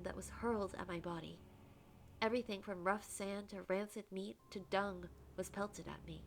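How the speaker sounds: expressive first-person storytelling; story narration. A narrator's reading. Condemned prisoner recounts being pelted, dramatic narration. Reads the game's narration aloud.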